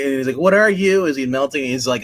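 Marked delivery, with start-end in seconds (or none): 0.4-1.1 louder, higher acted cry; mock horrified demand. Warden to the glowing man while melting, mock horror.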